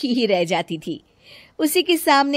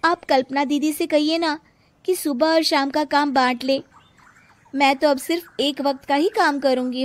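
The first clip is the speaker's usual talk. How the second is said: put-on higher young woman's voice, tired complaint; Priya complaining; 7 semitones higher than usual. A narrator's reading. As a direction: whine to mother-in-law about the workload. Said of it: "प्रिया कांता से कहती है".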